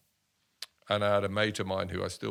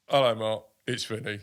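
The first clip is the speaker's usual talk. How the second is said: lightly put-on hard-man greeting, a touch louder; a hint of a gruff footballer saying hello; Vinnie Jones voice; 6 dB louder than usual. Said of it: "I don't know why I'm putting on a voice".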